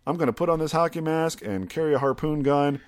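a touch of huffy rejected guy; sulky outburst. Retold or imitated. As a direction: storm off in a mild huff. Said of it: "he was just like".

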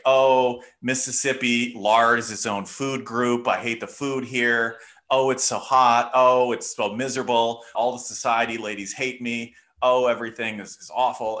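imitating an exasperated, put-upon grumbler; complaining. Historian imitates a governor's wife griping about Mississippi, mock complaining. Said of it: "she complains that, like".

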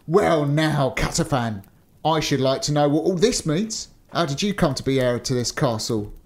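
ordinary delivery

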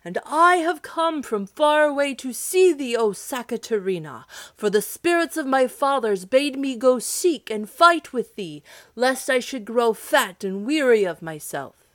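high, loud challenge shouted up at the giant; shouting hero. Acted. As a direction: call out to the giant in the clouds. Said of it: "shouted the hero".

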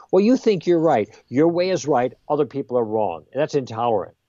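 a hint of a self-assured challenger; mock opponent. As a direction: lightly voice the critic's smug charge. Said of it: "let me just role play this out".

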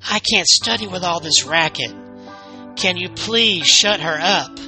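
exasperated protest. Acted. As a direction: plead crossly, leaning on each word. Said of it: "she shouted".

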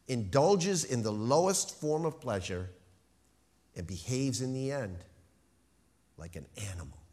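measured reading with long pauses between phrases; slow, deliberate reading. Real, not acted. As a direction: read slowly, letting each phrase land. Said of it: "I'm gonna read them slowly".

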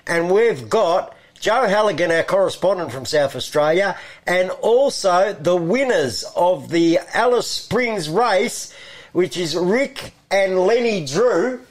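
big stretched-out show introduction; radio announcer. Real, not acted. Host introduces pigeon race winners to listeners, announcer style.

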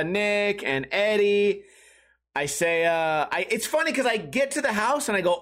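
normal talking voice

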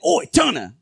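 a hint of a British oi; casual "Oi, Turner!" with a light laugh; mock Asgardian cheer. God tells fans his new Asgardian greeting, lightly accented. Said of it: "now I've just been saying".

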